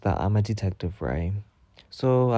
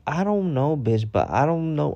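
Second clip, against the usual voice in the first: exasperated reply; 6 semitones higher than usual. Retold or imitated.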